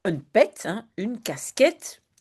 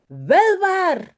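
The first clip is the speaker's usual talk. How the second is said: mock crying; 11 semitones higher, 5 dB louder than usual. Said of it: "huilt Janneke".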